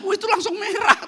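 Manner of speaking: laughing while telling it. Real, not acted. Pastor laughs recalling his blushing at the restaurant, laughing. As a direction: let the laugh break through.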